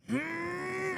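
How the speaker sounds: high, drawn-out straining "mm"; soft high grunt of effort; strained grunt. Acted. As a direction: push on a stuck bolt. Straining on a stuck bolt.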